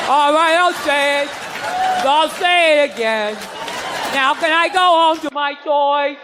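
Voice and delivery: put-on sing-song like a kid reciting to get home; playing a bored little boy giving in; mock obedient kid. Child obediently repeating in church.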